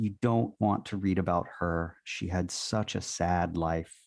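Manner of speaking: put-on sweet Southern accent. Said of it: "she said in a sweet Southern accent".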